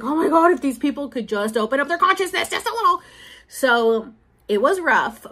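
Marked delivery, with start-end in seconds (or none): 0.0-3.0 exasperated plea. Retold or imitated. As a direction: throw up your hands in frustration. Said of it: "I'm like".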